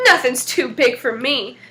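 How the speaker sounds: slow boastful brag; bragging. Acted. Medium-sized devil bragging to Jack, slow and cocky. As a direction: puff up and brag slowly. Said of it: "bragged the medium-sized devil".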